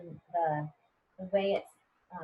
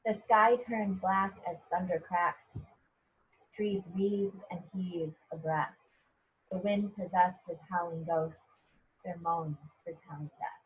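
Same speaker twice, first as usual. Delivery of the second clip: reading a poem aloud. Shown as a demonstration. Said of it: "So here it says".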